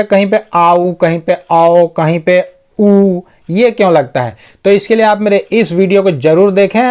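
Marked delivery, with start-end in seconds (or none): 0.5-0.9 आऊ as ah gliding into oo. Shown as a demonstration. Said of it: "तो ऐसा क्यों होता है". 1.5-1.9 औ as a short au glide. Shown as a demonstration. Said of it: "कब ओ यू से औ". 2.8-3.2 ऊ as a drawn-out pure oo. Shown as a demonstration. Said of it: "छोटा ऊ पढ़ते हैं".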